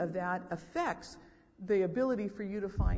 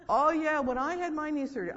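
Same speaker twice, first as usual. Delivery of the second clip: loud, high-pitched eager butting in; one-upping; 9 semitones higher, 7 dB louder than usual. Acted. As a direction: barge in to top their story. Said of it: "they have to one-up you".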